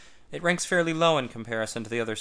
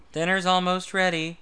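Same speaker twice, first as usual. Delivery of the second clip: high, loud thrilled greeting; loud excited wife; wildly excited; 7 semitones higher, 5 dB louder than usual. A narrator's reading. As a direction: greet them bursting with excitement. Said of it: "Martha's wildly excited greeting".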